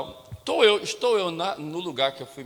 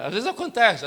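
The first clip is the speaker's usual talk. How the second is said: louder, higher emphatic repeat; preacher's raised repeat; 5 semitones higher, 6 dB louder than usual. Shown as a demonstration. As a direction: proclaim it to the congregation. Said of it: "Diga pra quem tá perto de você".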